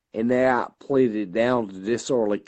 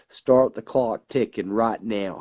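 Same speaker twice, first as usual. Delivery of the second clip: slow, deliberate challenge; retold defiant challenge. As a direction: lay down the dare word by word.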